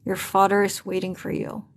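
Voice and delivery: lightly demoed teeth-clenched mutter; through clenched teeth. Shown as a demonstration. Teacher demonstrates speaking through teeth, lightly done. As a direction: show the class how words sound through clenched teeth. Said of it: "Jadi dia ngomongnya tuh kayak".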